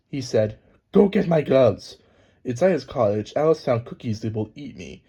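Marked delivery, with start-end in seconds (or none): 0.9-2.0 bossy rabbit. Acted. Rabbit ordering Alice.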